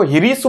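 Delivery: ह्रीष्व said as "hreeshv", with a long ree; teacher's pronunciation. Shown as a demonstration. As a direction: spell out ह्रीष्व clearly as hree-shv. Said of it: "ह्रस्व नहीं बोलते हैं".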